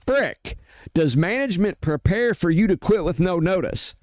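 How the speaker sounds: indignant, pitch pushed up; exasperated ranting rebuttal. Real, not acted. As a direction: fire back at the excuse.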